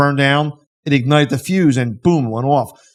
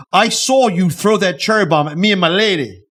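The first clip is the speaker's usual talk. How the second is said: angry husband; 3 semitones higher than usual. Retold or imitated. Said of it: "the husband goes".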